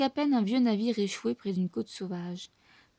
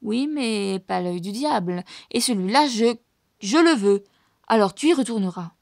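menacing; 7 dB louder than usual. A narrator's reading. Médusa turns hard.

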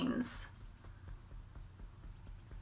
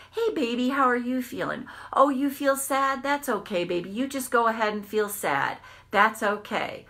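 higher, soothing voice to a little one; tender parent; 4 semitones higher than usual. Retold or imitated. Reparenting herself, soothing her inner child tenderly. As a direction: comfort the inner child like a baby. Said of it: "That's you reparenting yourself".

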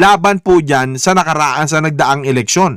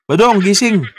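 mock wake-up call. Shaking an unresponsive guest awake.

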